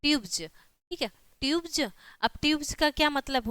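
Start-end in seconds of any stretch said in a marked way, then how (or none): 0.0-0.4 "ट्यूब्स" said with a final j, "ट्यूब्ज"; j sound at the end. Shown as a demonstration. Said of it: "ज हो गया". 1.4-1.8 "ट्यूब्स" pronounced "ट्यूब्ज", higher pitch; j sound at the end. Shown as a demonstration. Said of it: "ज हो गया".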